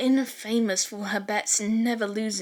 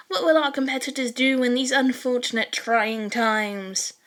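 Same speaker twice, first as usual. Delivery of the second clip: over-the-top announcer; 3 semitones higher than usual. Acted. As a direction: call it like a dramatic game-show host. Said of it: "over-the-top exaggerated announcer voice".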